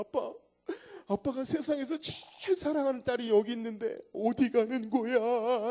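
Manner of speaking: put-on tearful, sobbing, wailing, begging voice. Retelling a daughter's words as she sobbed at a departure: imitating a daughter crying. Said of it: "이러면서 막 우는 거예요".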